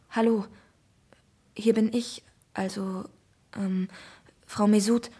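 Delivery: hoarse, hesitant hello; scratchy, nervous voice. Acted. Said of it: "antworte ich mit kratziger Stimme".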